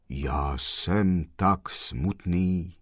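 slow, low and gloomy; sepulchral voice. Acted. Gentleman in black tells the postman, slow and gloomy. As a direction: speak as if from the grave, slowly. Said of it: "povídal hrobovým hlasem".

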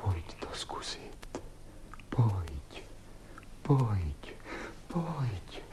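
soft unvoiced call to come; coaxing whisper. Man whispering to coax the woman to try. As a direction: whisper her over gently.

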